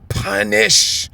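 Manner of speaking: drawn-out, emphatic declaration; emphatic preaching. Real, not acted. Preacher reading out word meanings, emphatic. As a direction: stretch the word out with force.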